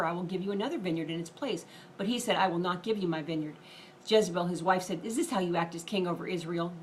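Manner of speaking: fast Bible reading, some lines hurried; rushed reading. Real, not acted. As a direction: race through the scripture passage. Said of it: "I'm gonna try to read this very fast".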